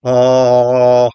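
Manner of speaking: dark ah with tongue pulled back; swallowed dark vowels. Shown as a demonstration. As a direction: pull the tongue back, darken the ah. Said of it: "pull my tongue back a little bit".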